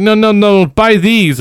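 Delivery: lightly voiced pushy clerk; shop clerk. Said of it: "She's like".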